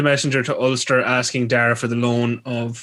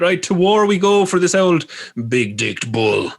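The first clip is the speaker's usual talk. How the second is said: mock Maeve battle cry; 5 semitones higher than usual. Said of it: "And she said".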